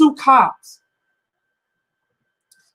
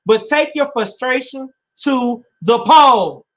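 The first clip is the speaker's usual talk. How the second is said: urgent shout; 2 semitones higher, slower than usual. Real, not acted. Urging voters, emotional plea.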